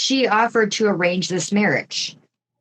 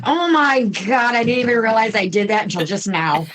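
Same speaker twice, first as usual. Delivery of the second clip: laughing; faster than usual. Real, not acted. Host catches her own pun.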